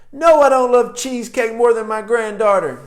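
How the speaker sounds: high, loud mock protest; indignant denial. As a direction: imitate an offended client denying it emphatically. Voices woman's indignant denial about cheesecake.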